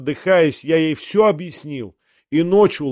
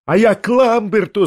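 higher, louder outburst; wailing shout; 8 semitones higher, 5 dB louder than usual. A narrator's reading. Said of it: "завопил я".

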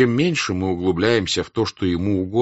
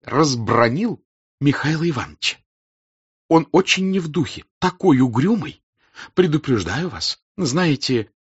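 higher, louder voice with a French r; French burred r; 7 semitones higher, 4 dB louder than usual. A narrator's reading. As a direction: gossip brightly, burring the r. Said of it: "особенно грассируя".

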